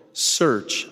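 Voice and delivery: "Search" set apart with weight; stress on Search. Real, not acted. Speaker quoting the prophet to the congregation, stress on "Search". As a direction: land firmly on "Search" and let it stand alone. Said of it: "I emphasize the word search".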